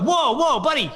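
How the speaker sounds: high, loud mock protest; worked-up retelling, pitch way up; indignant demand. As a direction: stop him and demand what you're owed. Retold demand for winnings.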